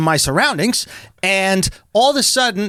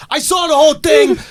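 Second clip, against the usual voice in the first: higher, punchy witness announcement; bystander's voice; 8 semitones higher, 4 dB louder than usual. Retold or imitated. Guy walking up after the smash, raised witness voice. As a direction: imitate a stranger calling out. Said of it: "Guy walks up, he goes".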